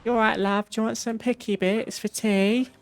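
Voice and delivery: hammed-up cheeky British voice; obnoxious British accent. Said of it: "with a obnoxious British accent like that".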